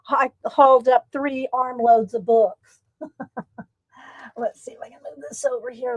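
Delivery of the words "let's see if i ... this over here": whispering. Real, not acted. Whispered while adjusting camera.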